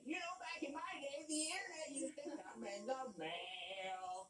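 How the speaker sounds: a hint of a creaky old lady; lightly voiced old lady reminiscing. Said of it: "The six-year-old and old lady voice said".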